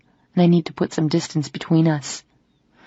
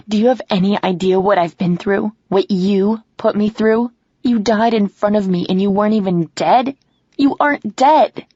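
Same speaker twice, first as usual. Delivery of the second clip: louder, higher accusing questions, peaking high on the last; angry confrontation; 3 semitones higher, 3 dB louder than usual. Acted. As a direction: demand answers, getting louder. Confronting Ben about faked death.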